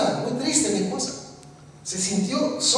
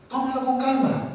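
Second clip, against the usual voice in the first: soft emphasis; 2 semitones higher, 5 dB quieter than usual. Shown as a demonstration. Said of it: "Esa fue la palabra".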